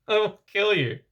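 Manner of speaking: a jealous son threatening his father, in an overacted snarl; menacing threat. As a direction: spit the threat out like a cartoon villain.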